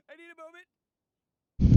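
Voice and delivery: loud, slow, breathless line; dramatic gasp. Acted. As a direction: drag it out, winded. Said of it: "I love the voice acting".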